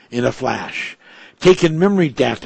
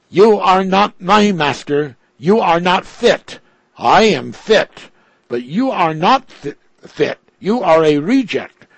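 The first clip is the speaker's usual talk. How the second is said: raised and loud, defiant; challenging; 5 semitones higher, 4 dB louder than usual. A narrator's reading. Robot Ripples defying its maker Piorti, loud and defiant. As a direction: throw each line back at him, higher and louder. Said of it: "challenged Ripples".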